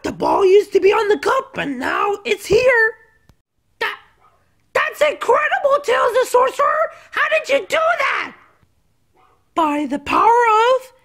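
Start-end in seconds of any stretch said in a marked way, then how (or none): 3.8-8.3 higher, laughing amazement; amazed. Acted. Sticks cheers Tails the Sorcerer, amazed and laughing. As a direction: marvel at the trick.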